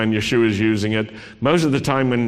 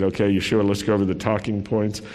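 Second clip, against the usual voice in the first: spin master coach; 2 semitones lower than usual. Pretend. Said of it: "a spin master who said".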